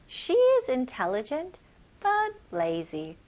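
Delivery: very slow, phrase by phrase; slow chunked reading. Shown as a demonstration. Teacher breaks the sentence slowly into chunks. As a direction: read it slowly in two chunks. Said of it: "첫 번째 문장 다시 한번 볼게요".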